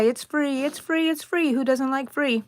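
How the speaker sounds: a hint of a carnival barker pitch. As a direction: sell it lightly like a barker. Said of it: "I sound like a carnival barker".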